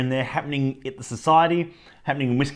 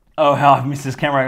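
fondness laid on sarcastically, mock affectionate tone; 6 dB louder than usual. Remarking to viewers about the reversed camera: sarcastic. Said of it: "that's a bit sart-, sarcastic".

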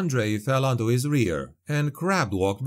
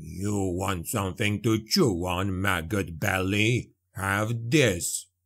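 low, growling dwarf voice; 4 semitones lower than usual. Narrator voicing a dwarf facing an attacking zombie: growling dwarf. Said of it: "the dwarf growled".

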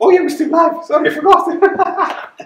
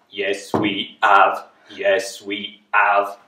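very low, flat, mechanical robot drone; 12 semitones lower, 5 dB quieter than usual. Asked if they brought their robot voices, the group answers in robot voice. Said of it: "Have you brought with you your robot voices?".

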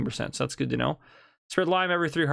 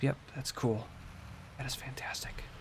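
hushed whisper, much quieter; 12 dB quieter than usual. Checking on sprouting plants during a stream, the speaker talks in a whisper. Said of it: "Sorry, I'm whispering".

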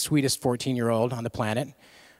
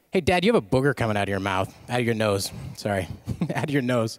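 ordinary talk

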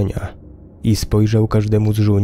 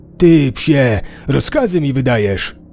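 all-out screaming, yelled outburst; 4 semitones higher, 3 dB louder than usual. Reading Dostojew's line as he screams at the fallen fat man: screamed. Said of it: "Wrzasnął Dostojew".

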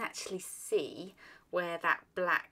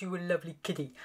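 sweet-talking talking-to-pet voice. Addressing the tiger on the plate, the speaker uses a talking-to-pet voice. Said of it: "[in talking to pet voice]".

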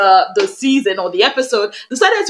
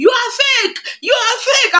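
very high-pitched shrill shouting; 11 semitones higher than usual. Retelling a confrontation with a guy who followed Faith, retelling your own shouting. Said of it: "I was shouting".

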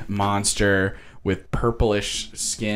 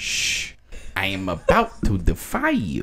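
swooping, drawn-out cartoon voice; 4 dB quieter than usual. Quoting a movie scene when asked to: Bugs Bunny voice. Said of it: "It's not my best Bugs Bunny".

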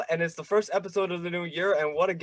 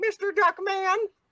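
very high-pitched little squeak, cartoon voice; 13 semitones higher than usual. Showing how high a voice can go, calling a name: high-pitched Fluffy and Uranus voice. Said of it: "high-pitched, like Fluffy and Uranus on Duckman. You go, like".

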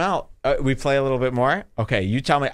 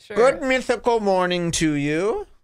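high, put-on, leprechaun-style Irish accent; 7 semitones higher than usual. Offering to show it off, a speaker does his Irish accent impression. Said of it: "you want to hear my Irish impression?".

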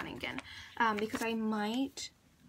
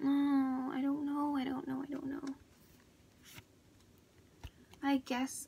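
sad-sounding voice, higher pitch; 4 semitones higher than usual. Putting down stickers while filming, unsure what to do: sounding sad. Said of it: "I don't know why I'm sounding so sad".

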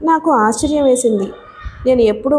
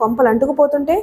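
usual speaking voice

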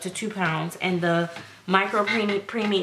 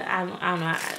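ordinary delivery

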